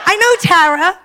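laughing at her own mistake; embarrassed laughing realization. Real, not acted. Telling the crowd her blunder, laughing at herself. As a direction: let the laugh break through.

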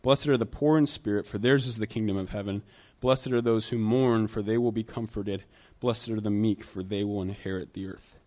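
scripture reading. Real, not acted. Pastor rereading the Beatitudes, solemn and measured. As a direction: read the verses with weight. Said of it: "Let me read 'em one more time".

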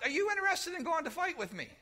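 a hint of a scheming buddy inviting; casual Ahab. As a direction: Ahab sweet-talking Jehoshaphat at the cookout. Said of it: "he's like".

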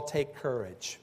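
soft, gentle "Take courage" to soothe frightened men; hushed, reassuring "Take courage"; calming. Acted. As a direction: say "Take courage" quietly, settling their fear. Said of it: "Jesus had to calm them".

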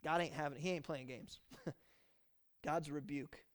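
ordinary talk, nothing marked

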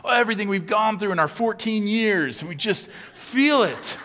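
high, overwrought emo whine; mock emo teen. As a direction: ham up a dramatic teenager's feelings. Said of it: "emo is like this".

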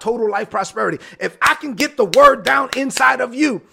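driving, loud-peaked sermon climax; urgent pulpit exhortation; full-force preaching. Acted. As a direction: build momentum and hammer each declaration.

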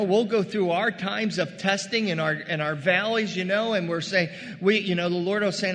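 ordinary talk

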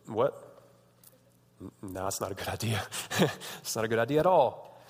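a calm no from Jesus; Jesus answering. Retold or imitated. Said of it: "And Jesus is like".

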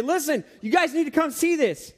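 high, loud urgent warning to friends; alarmed smart mouse. Pretend. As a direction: call the others over in alarm. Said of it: "And he would say".

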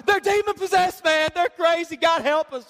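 exasperated parent. Retold or imitated. Pastor voicing a parent joking about wild kids. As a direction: sigh it out like a worn-out parent.

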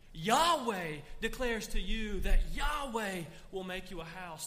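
God's declaration. Acted. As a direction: announce it as God speaking of himself. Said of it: "He switches to the third person".

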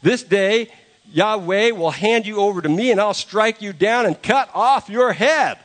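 David threatening Goliath before battle; fierce threat. Acted. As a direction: promise the giant his doom. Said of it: "no, he says".

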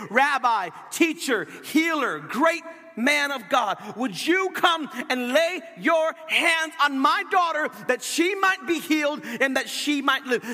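preacher voicing a father's fervent appeal; crying out. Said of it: "he would cry out to him".

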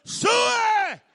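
high, loud hog call, drawn out; a big farmboy hog call across the fairway; hollered hog call. Retold or imitated. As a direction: holler Suey across the golf course. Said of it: "and I hollered".

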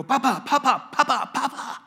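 high, bright calling of papa like a grandchild; playful papa call. Retold or imitated. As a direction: call out papa like a little boy. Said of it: "And I go".

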